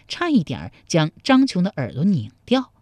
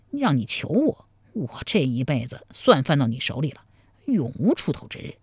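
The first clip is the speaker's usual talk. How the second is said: low, softer sly musing; young man's private scheming; 4 semitones lower, 3 dB quieter than usual. Acted. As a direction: plot to play hard to get. Zhang Qiong's inner thoughts.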